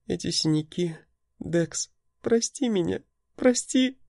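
high, soft, breaking into tears; begging forgiveness through tears; tearful pleading. A narrator's reading. Lita begs Dex to forgive her, tearful and high. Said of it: "Она зарыдала".

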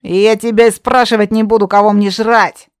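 put-on loud furious young witch; angry shout. Redhead witch shouting at Yaga, furious. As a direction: yell it, threatening.

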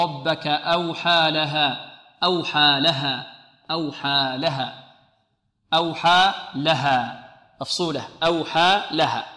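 slow chanted أوحى لها with a drawn-out vowel; ترتيل قرآني. Shown as a demonstration. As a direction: draw out أوحى لها as in recitation. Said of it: "يكرر الآية مرتلة". (ترتيل بطيء لـ أوحى لها)

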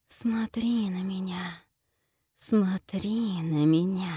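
slow, breathy seductive whisper, luring. Acted. Gorgon luring the heroine to look, seductive slow whisper. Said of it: "обольстительное шипение Горгоны".

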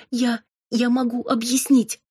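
high, flustered squeak. A narrator's reading. Robin caught by her cousin, flustered high squeak. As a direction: squeak it out in a panic. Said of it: "пискнула я".

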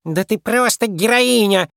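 high, slow sarcastic squeak; a tiny cross mouse squeaking sarcasm; squeaky, sneering mouse voice; angry mouse squeak. A narrator's reading. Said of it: "пропищала сердитая мышь".

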